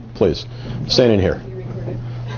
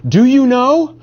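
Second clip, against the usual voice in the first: demo line; 9 semitones higher, slower than usual. Shown as a demonstration. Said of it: "you're just going to say".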